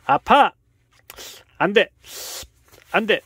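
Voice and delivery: high, very loud cries; yelling in pain. Real, not acted. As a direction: yell at the biting cat. Pet attacking, yelling.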